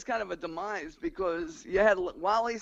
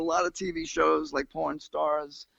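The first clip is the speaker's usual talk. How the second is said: Porn Stars said as porn, Long Island vowel; Long Island accent; slower than usual. Real, not acted. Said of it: "that's my Long Island accent right there".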